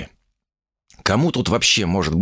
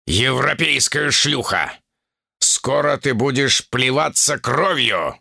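slow, higher, venomous threat; furious hissed threat; 4 semitones higher, slower than usual. Acted. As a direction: spit the insult back at her. Оплёванный демон в ярости. (оплёванный демон медленно и злобно угрожает)

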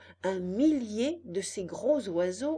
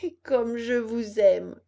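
tearful affection; 2 semitones higher, 7 dB louder, slower than usual. A narrator's reading. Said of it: "en s'essuyant les yeux".

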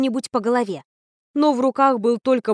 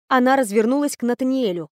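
usual speaking voice

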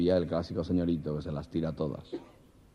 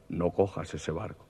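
a mysterious voice warns him off the train; ominous voice; 2 semitones lower, slower than usual. Acted. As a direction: drop the voice like a ghostly warning.

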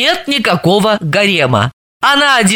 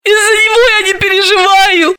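much higher, fast denial; Dalila's voice; 12 semitones higher, faster than usual. Acted. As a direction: insist quickly.

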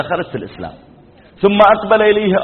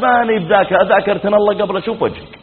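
raised, indignant comeback; imitated wife's retort; 3 semitones higher than usual. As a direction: snap back at him in mild mock anger. Wife retorts in quarrel. (رد زوجة ساخطة، تقليدًا)

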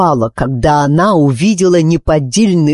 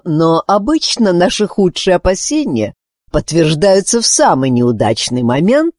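ordinary delivery

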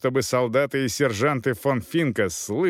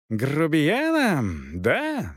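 outraged yell; 3 semitones higher, much slower than usual. A narrator's reading. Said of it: "заорал капитан".

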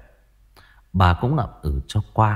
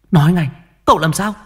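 higher, louder, fast desperate order; frantic demand; 8 semitones higher, 6 dB louder, faster than usual. Acted. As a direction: shake the answer out of the servant. Mother demands news of son. (bà quát hỏi dồn, to và nhanh)

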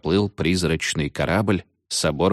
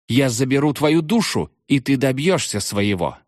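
witch's claim; 7 semitones higher than usual. A narrator's reading. Witch claims the captain's soul.

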